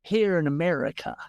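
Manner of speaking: put-on quick Southern American accent. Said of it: "drops to a perfect Southern American accent".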